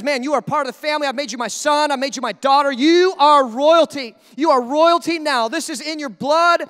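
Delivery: loud declaration, building in force; emphatic proclamation. Acted. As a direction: proclaim it like a father crowning his children. God proclaims believers as royalty.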